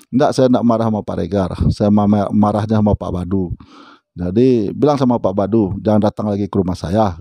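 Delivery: retold climb-down, anger mostly gone. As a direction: imitate a caller backing down, voice settled. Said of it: "nadanya turun".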